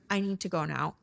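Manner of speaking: low-key, even statement; calm, matter-of-fact. Retold or imitated. Fuming ex walking away from the fight, calm. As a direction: keep it quiet and factual. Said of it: "says it very calmly, matter-of-factly".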